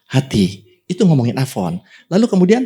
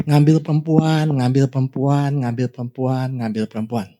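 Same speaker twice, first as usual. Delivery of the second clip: monotonous repetition. Acted. Preacher illustrating his own endlessly repeated sin, fading monotone. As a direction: repeat it evenly, sinking away each time.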